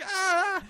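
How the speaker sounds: high acted wail; imitated yelp of fear; high, unforced "ah"; mock frightened cry. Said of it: "Guy's like".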